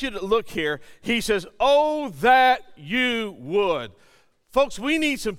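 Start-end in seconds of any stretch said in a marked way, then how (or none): 1.6-3.9 slow, drawn-out cry to God. Retold or imitated. Preacher voicing a bold prayer to God, crying out. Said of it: "call out and cry out".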